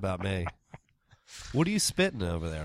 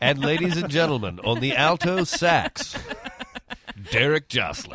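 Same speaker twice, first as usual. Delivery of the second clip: announcer voice; 4 semitones higher, 5 dB louder than usual. Pretend. Emcee introducing a band player.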